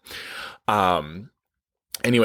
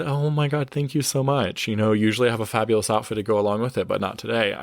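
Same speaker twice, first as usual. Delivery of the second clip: excited gushing reply; faster than usual. Retold or imitated. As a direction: gush back at the compliment. Her excited reply quoted.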